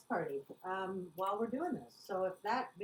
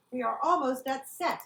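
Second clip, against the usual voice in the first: mock French accent; 2 semitones higher, 6 dB louder than usual. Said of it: "So when he says".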